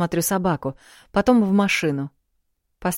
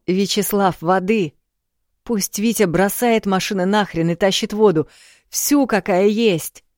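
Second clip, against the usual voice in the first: loud, high urgent shout; shouting into phone; 4 semitones higher, 5 dB louder than usual. Acted. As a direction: bark orders down the phone. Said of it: "прокричал в телефон".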